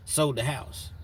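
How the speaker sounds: high, loud burst of disbelief; outraged retelling. Retold or imitated. Son telling Pops, outraged and loud. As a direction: throw the line up in outrage. The speaker's story, rising outrage.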